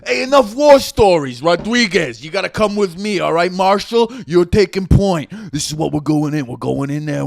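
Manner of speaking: lightly voiced commanding officer; squad leader. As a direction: give the order to move in.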